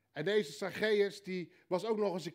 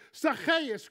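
loud, high call of the name; Jesus calling up to Zacchaeus; 7 semitones higher, 7 dB louder than usual. Acted. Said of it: "hier roept Jezus".

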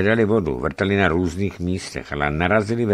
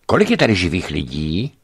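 mildly excited, louder in timbre; excited question; 4 dB louder than usual. A narrator's reading. Newcomer asks who is alive here, excitedly. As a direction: ask it with a touch of agitation. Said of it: "ptá se vzrušeně".

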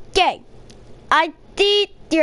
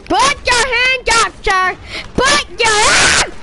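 higher, louder barked police order; police command; 6 semitones higher, 3 dB louder than usual. Acted. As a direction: shout the order at the suspect. Police role ordering a suspect.

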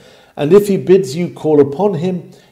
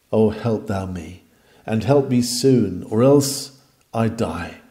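reverent prayer. Shown as a demonstration. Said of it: "Speak with him reverently but believingly".

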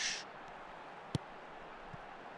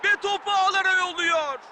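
excited goal call; 3 semitones higher than usual. Real, not acted. Goal call in live commentary.

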